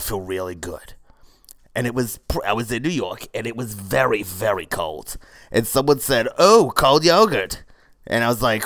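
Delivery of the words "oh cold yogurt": loud, high, drawn-out mock exclamation; exclaiming passer-by. Passer-by spotting yoga in the cold, exclaiming. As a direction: call it out slowly, pitched up.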